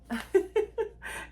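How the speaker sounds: high nervous giggle, rising; self-conscious laugh. Real, not acted. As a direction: giggle at your own big promise. Laughs mid commitment to reading.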